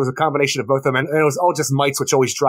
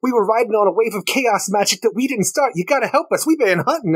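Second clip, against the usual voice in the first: pleading imp voice; 6 semitones higher than usual. Retold or imitated. Voicing Bat-Mite pleading to Superman.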